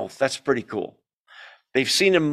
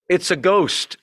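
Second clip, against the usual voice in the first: fearful cry; 4 semitones higher, 3 dB louder than usual. Acted. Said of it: "they cried out in fear".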